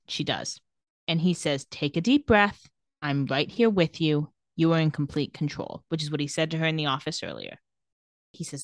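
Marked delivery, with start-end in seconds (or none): 1.7-5.8 calming. Retold or imitated. Retold hypnotist calming Bonnie down.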